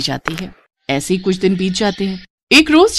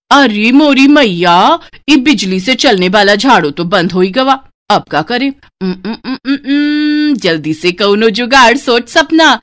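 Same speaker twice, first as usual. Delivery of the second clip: flustered village bride. Acted. Bride whose vacuum died thinks aloud, flustered. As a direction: fret then think it over.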